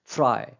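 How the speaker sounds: teacher shows stress on फ्राई; primary stress demo. Shown as a demonstration. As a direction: land फ्राई firmly as a stressed single syllable. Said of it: "primary stress देकर इनको बोल रहा हूँ".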